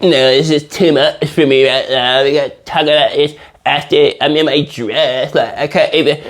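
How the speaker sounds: lightly mocking mumbled whine; mocking the bride. Man imitating the bride begging off, mocking mumble. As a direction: imitate her half-garbled excuses. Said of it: "And she was just like".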